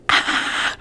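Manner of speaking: breathy, unvoiced pretend scream; faint mock scream. Shown as a demonstration. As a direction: fake a scream with almost no voice. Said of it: "then scream".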